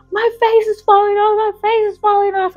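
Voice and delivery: high, wailing panic, acted out; mock hysteria. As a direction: imitate a girl wailing in horror. Retold girl hysterical at the mirror.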